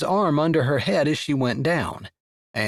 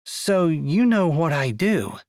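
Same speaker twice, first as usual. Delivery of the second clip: serious; 2 semitones higher than usual. Acted. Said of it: "all trace of humor gone from her voice".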